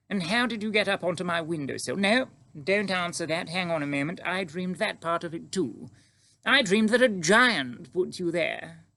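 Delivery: high, agitated regal voice; astonished queen, pitched high; bewildered queen. Acted. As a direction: question the child, then stop her as it dawns on you.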